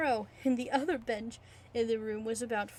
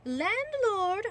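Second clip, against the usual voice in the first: calling out; 9 semitones higher, 5 dB louder than usual. Acted. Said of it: "The landlord chuckled".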